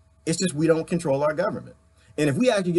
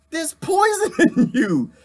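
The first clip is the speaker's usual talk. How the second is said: pitch; 12 semitones higher, 5 dB louder than usual. Real, not acted. High conspiratorial rant.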